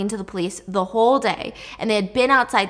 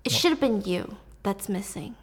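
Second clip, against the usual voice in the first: soft unvoiced whisper of a guilty thought; dark whispered thought; 6 dB quieter than usual. Mom's intrusive thought about her daughter, hushed whisper. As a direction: breathe it like a secret. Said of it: "the thought was".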